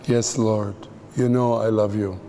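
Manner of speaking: subdued, understated reply; ashamed. Retold or imitated. Peter answers Jesus with head down, ashamed. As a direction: answer humbly, a touch of shame. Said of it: "putting his head down in shame".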